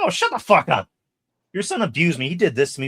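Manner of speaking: high, loud hammed-up rant; imitated trash talk. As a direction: mimic a bitter accuser. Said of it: "she's talking shit the whole time".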